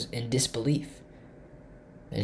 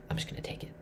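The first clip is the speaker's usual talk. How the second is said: breathy whisper, barely audible; 14 dB quieter, much faster than usual. Retold or imitated. Chess opponent muttering his decision under his breath, whispered. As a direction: murmur it under your breath to yourself. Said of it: "like a whisper".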